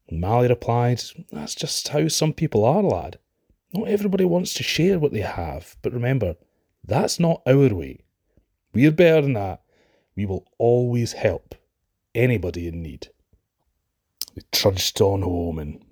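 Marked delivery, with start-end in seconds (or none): 1.3-13.1 gentle mother. Acted. Mother gently teaches her son.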